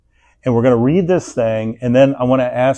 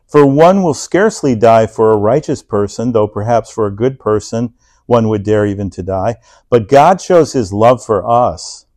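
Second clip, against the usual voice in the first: scripture reading; 4 dB louder than usual. Acted. Pastor reading Romans to the church, loud and deliberate. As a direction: read it out to the congregation with weight.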